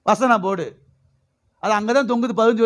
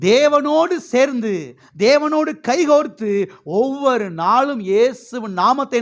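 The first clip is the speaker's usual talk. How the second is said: higher, ringing exhortation; fervent preaching; 3 semitones higher, slower than usual. Real, not acted. Preacher urging church to join hands with God, fervent. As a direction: lift the voice and draw out each phrase.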